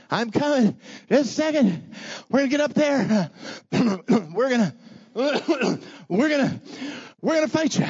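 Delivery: high, squeaky mock warrior calling out; mock warrior calls. Soldiers climbing the bluff, mocking high calls up to the enemy. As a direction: ham up a clumsy climber announcing himself.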